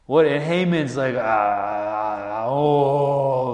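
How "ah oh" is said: mock angry groan. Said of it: "like burning with anger".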